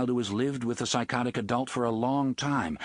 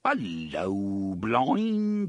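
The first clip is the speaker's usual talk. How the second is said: put-on bogus British accent; 2 semitones lower, much slower than usual. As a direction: bellow it in a hammed-up posh British accent. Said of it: "adopting a plummy and completely bogus British accent".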